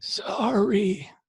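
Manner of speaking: hoarse, high, raspy stage whisper. Voicing a chained figure heard from the dark: hoarse whisper. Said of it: "a hoarse, whispering voice saying".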